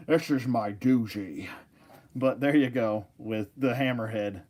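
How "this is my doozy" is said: Connery voice. Retold or imitated. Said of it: "alien version of Sean Connery".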